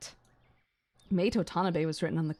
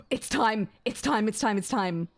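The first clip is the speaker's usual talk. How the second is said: eager anticipation; 3 semitones higher than usual. Real, not acted. Streamer hypes up coming plot moment.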